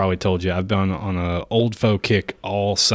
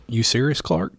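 movie quote impression; 4 semitones higher than usual. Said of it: "That sounded a little bit like".

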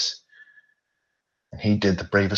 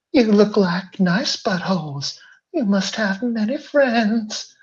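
evil clown voice; 5 dB louder than usual. Acted. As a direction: taunt them like a monstrous clown. Pennywise taunts the bent-over pair.

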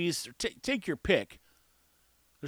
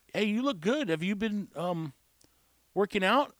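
tactful, higher-pitched compliment; easing into it; 3 semitones higher than usual. Acted. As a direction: hesitate politely, then ask. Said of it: "easing into things".

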